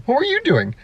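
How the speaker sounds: high, indignant retort; mock indignant driver. Wrong-way driver snapping back at the other, high mock indignation. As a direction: play the clueless driver turning it back on them.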